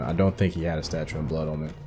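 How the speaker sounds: ordinary talk, nothing marked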